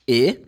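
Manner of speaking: a short, lax ih sound for "E". Shown as a demonstration. Teacher shows learners the short one, lax ih. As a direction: say "E" as the ih in sit. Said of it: "can have the short one".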